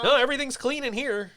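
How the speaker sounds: a little bear chirping that all is clean; baby bear voice. Retold or imitated. Baby bear from the Charmin ad to Mister Clean, high cartoon voice. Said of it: "He's like".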